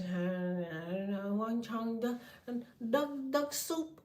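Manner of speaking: slow, drowsy mock foreign babble; sleepy gibberish. Drugged on melatonin, babbling fake language slowly. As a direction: mumble fake words half asleep. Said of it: "speaking in another goddamn language".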